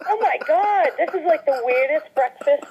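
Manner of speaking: baffled aside at a strange breakfast; bewildered. Retold or imitated. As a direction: sound baffled at the whole scene. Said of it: "And I go".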